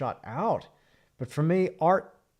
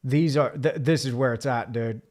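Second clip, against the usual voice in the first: imitating an excited painter; 5 dB louder, slower than usual. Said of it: "You're like".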